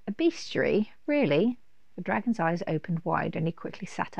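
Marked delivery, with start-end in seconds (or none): 0.1-1.6 excited dragon. Acted.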